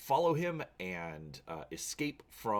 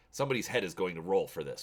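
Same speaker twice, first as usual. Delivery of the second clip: snapping; 3 dB louder, faster than usual. Acted. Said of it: "Parnell snaps".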